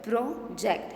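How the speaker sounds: "Project" broken as pro, ject; teacher separating both halves of "Project"; split into syllables. Shown as a demonstration. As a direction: say "Project" in two distinct beats. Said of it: "How many syllables?".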